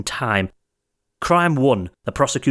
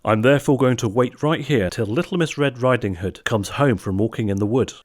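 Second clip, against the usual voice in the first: frightful leer. Acted. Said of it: "with a frightful leer".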